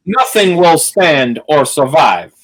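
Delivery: slow, drawn-out impression of a film line; mock film villain. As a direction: draw out each word with playful menace. Joking impression of film lines.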